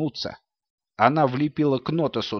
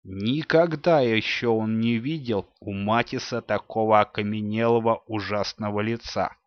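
usual speaking voice

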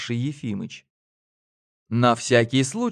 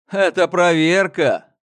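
loud, slow, higher exclamation; exclaimed; 6 semitones higher, 7 dB louder than usual. A narrator's reading. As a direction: proclaim it triumphantly, slowly. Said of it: "воскликнул он". (громко и медленно воскликнуть)

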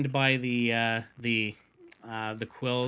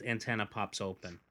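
normal talking voice

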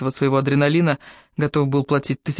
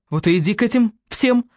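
tossed off curtly; 6 semitones higher than usual. A narrator's reading. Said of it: "бросила она".

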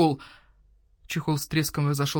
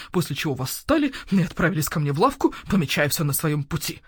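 owl shopkeeper voice. Acted. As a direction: voice the grumpy owl merchant. Owl mocks the smell.

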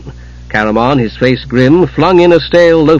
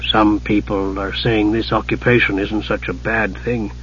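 soft and slow, much quieter; quietly; 3 semitones lower, 8 dB quieter than usual. Acted. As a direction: say it carefully, almost under breath. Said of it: "then said quietly".

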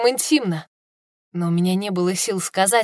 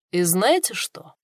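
slow conspiratorial whisper; secretive whisper; slower than usual. Acted. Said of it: "словно готовясь поделиться секретом".

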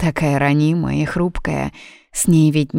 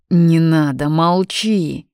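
a mild strained cry, louder; straining inner voice; 3 dB louder, slower than usual. Acted. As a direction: urgently hush him. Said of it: "надрывался внутренний голос".

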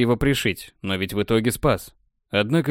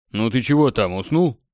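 impatient. Acted. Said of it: "нетерпеливо поинтересовался варвар".

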